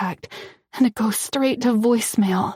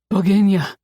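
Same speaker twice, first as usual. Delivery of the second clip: firm call; 4 dB louder than usual. A narrator's reading. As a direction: call her name firmly. Dmitri bursts in, calls her.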